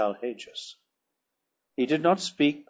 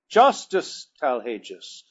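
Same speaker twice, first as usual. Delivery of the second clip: exclaiming; 4 dB louder, slower than usual. Acted. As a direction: cry out for justice. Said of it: "exclaimed Lorquas Tomal".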